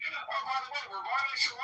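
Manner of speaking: imitated casual greeting. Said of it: "You're like".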